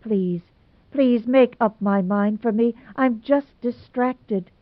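lightly voiced pleading, a touch tearful, slowing at the end; half-hearted tearful plea, breaking toward the end. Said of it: "Dovey's voice broke on a tearful note".

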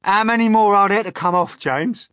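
high, loud bug voice; demanding Centipede. A narrator's reading. Centipede asks James about the boots, demanding. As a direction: demand a count from the boy.

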